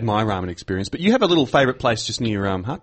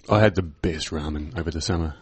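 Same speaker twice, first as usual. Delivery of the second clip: drops far lower and softer; low register; 7 semitones lower, 5 dB quieter than usual. Real, not acted. Telling his co-host about summer ramen, in a low register. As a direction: sink into a low, hushed register. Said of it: "you went all low register".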